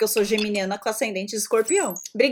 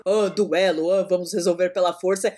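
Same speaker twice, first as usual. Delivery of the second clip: macho brother; 6 semitones lower than usual. Retold or imitated. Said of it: "O irmão lá da".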